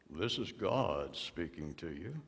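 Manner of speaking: Satan's false voice. Retold or imitated. Satan posing as God.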